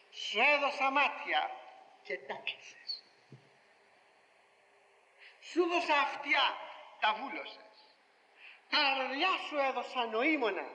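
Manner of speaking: slow, sorrowful voice of God; God's lament. Acted. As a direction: reproach them gently as God. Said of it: "του είπε ο Θεός". (θλιμμένη φωνή του Θεού)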